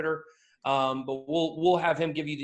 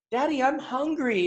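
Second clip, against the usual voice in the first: put-on child voice; 8 semitones higher than usual. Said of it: "the classic dad joke of".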